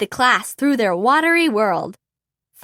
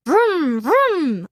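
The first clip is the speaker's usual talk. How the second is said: engine noise; 3 semitones higher than usual. A narrator's reading. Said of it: "Avi said".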